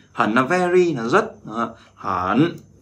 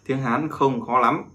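slow repeat; slower than usual. Shown as a demonstration. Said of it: "bí mật mình muốn bật mí".

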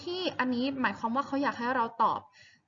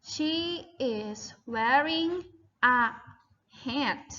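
"she is wearing a hat" with pauses between words; slow model sentence; much slower than usual. Shown as a demonstration. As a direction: model it slowly, word by word. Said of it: "ดังนั้นคำถามนี้ตอบว่า". (พูดช้าๆ เว้นจังหวะทีละคำ)

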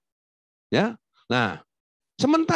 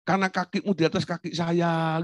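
lightly acted courteous explanation; gentle Javanese politeness; 3 semitones higher than usual. Javanese explaining about the stepped-on foot, politely restrained. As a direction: imitate mild, held-back politeness, evenly sustained. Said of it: "tapi omongannya halus".

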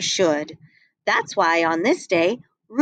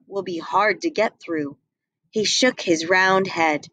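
put-on lightly lowered jolly old Santa, a bit worried; Santa's voice; 2 semitones lower than usual. Santa speaks to his reindeer.

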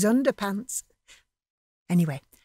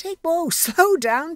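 higher, amused and slower; laughing; 9 semitones higher, 3 dB louder, slower than usual. Acted. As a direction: laugh him down gently. Laughing at excited friend.

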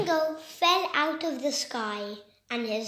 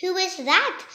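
wondering; 5 semitones higher, 5 dB louder than usual. Acted. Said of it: "the heron wonders".

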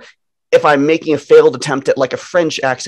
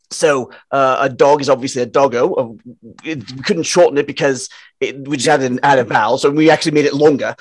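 put-on amateur Australian accent; attempted Australian accent. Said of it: "that's my attempt at an Australian accent".

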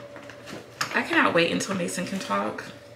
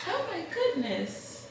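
high soothing coo; 9 semitones higher than usual. Real, not acted. Soothing fussing baby.

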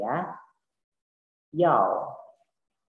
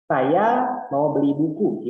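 louder prompt; 2 semitones higher, 7 dB louder, slower than usual. Shown as a demonstration. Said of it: "teacher gives sentence to translate".

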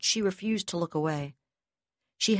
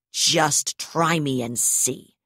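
slow snarl through gritted teeth, louder; 4 dB louder, much slower than usual. Acted. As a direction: bite each word out through clenched teeth. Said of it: "she snarled through gritted teeth".

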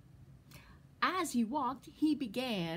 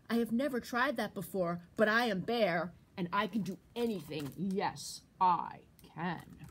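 a hint of proud bear; boastful Bear. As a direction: brag with confidence.

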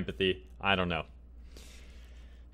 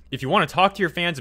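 worked up; 5 semitones higher than usual. Real, not acted. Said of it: "And I'm getting worked up".

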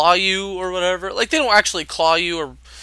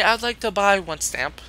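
mimicking customer; 4 semitones higher, 4 dB quieter than usual. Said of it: "Here's the exact conversation".

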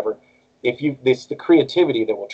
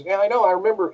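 put-on raised voice of a big old Texan; imitated Texas director; 9 semitones higher, faster than usual. Director answering the worried new actor, imitated Texas guy. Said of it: "this guy's a big old Texas guy".

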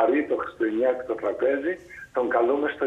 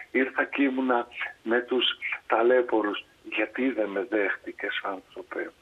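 lightly voiced Christ. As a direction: gently tell him he came many times. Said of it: "τι του λέει ο Χριστός".

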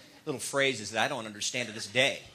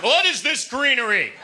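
devil voice; 12 semitones higher, 4 dB louder than usual. Retold or imitated. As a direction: squeal it like a baffled devil. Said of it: "That's how the devil walks".

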